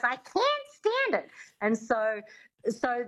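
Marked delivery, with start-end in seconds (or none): 0.0-1.3 very high, mangled diva voice; exaggerated high character voice; Lena Lamont. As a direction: pitch it way up, failing the elocution lesson. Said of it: "And she goes".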